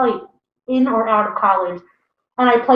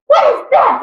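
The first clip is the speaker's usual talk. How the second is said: high, loud outraged mom; mock outraged mom; 14 semitones higher, 5 dB louder than usual. Mom finding her daughter's music, loud outraged shriek. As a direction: shriek it like a horrified mother. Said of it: "she'd be like".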